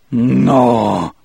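gasped horrified no. Acted. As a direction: recoil in horror. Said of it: "in a low, horrified voice".

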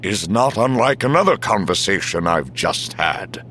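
measured, deliberate chief's voice; Omis, slow. A narrator's reading. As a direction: weigh the words out slowly, pointedly. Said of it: "said Omis slowly".

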